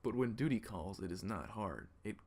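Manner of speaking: a weary guard on duty; gruff guard. Acted.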